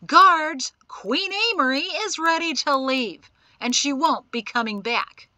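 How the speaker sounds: loud, indignant call; calling out angrily. A narrator's reading. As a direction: summon the guards at full voice. Prisoner shouts for the guards.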